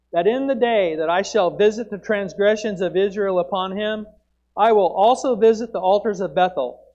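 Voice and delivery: thundering scripture delivery, easing slightly toward the end; yelled proclamation. Acted. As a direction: proclaim it forcefully like a prophet at the altar. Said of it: "Amos jumps up at the altar and he yells".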